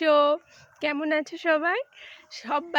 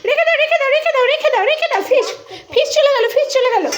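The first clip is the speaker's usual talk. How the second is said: playful squeal; 12 semitones higher, 5 dB louder, faster than usual. Real, not acted. Playful with toddler and fish.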